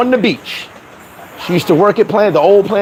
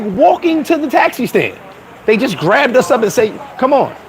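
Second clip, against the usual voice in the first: imitating his girlfriend; 6 semitones higher than usual. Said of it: "She was like".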